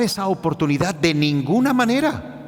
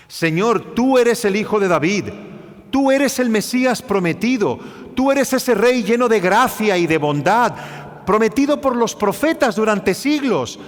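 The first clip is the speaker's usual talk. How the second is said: pleading beggar; 5 semitones higher than usual. Acted. Preacher voices Bartimeo's desperate plea.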